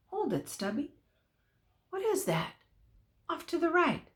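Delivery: soft, wary, held-breath voice; hushed to himself. A narrator's reading. Cowhand halting his horse to listen, hushed. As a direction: pull up short and listen hard.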